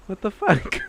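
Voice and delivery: loud, stunned "what the fuck"; mock shocked exclamation. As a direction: act out a friend's disbelief. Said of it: "you're just like".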